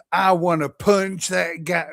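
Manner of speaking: rough mock New Mexico accent; attempted New Mexico accent. Streamer quoting what a dimwit said, mock New Mexico accent. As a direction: imitate a dimwit in a half-sure American accent. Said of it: "What's a New Mexico accent?".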